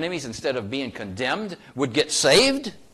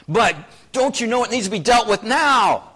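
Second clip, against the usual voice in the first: higher and louder, voicing a restless listener; impatient objector; 8 semitones higher, 7 dB louder than usual. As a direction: play the church member who wants it settled now.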